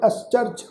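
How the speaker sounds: ਅਸਚਰਜ with s running into ch; teacher's model of ਅਸਚਰਜ, joining s and ch; demonstrated pronunciation. Shown as a demonstration. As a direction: say ਅਸਚਰਜ as as-charj. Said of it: "ਇਸ ਦਾ ਪਾਠ ਉਚਾਰਨ ਕਰਾਂਗੇ".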